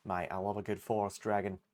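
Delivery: a bad Australian accent, barely there; half-hearted Australian accent. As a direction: have a go at an Aussie accent and miss. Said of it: "I can't do an Australian accent to save my life".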